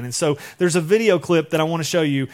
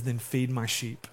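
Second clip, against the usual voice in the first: soft, slow commission; 5 semitones lower, 8 dB quieter than usual. Retold or imitated. Jesus gently commissions Peter.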